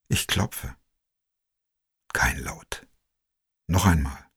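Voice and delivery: breathy hushed whisper, no voice. A narrator's reading. Narrator at the silent door, whispering. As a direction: hold your breath at the door.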